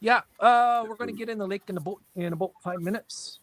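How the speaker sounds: exaggerated, quick Minnesota accent; extreme Minnesota accent. Shown as a demonstration. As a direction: lay the Minnesota accent on thick. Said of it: "that's extreme".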